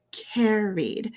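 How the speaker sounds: "carried" with a long, clear ee before the d. Shown as a demonstration. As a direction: stretch "carried" as CARE-eed. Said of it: "say the long E sound".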